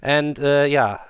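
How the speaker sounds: slow, stilted English announcer voice; hammed-up podcast announcer; mock English announcer.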